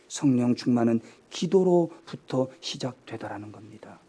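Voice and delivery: hushed whisper to drive it home; whispered emphasis. Acted. Pastor confiding the key point to the congregation, whispered.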